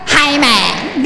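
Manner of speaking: lightly voiced cowboy greeting with wide "man"; a hint of cowboy in a drawn-out greeting; cowboy talk. Shown as a demonstration. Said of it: "kayak koboi ngomong".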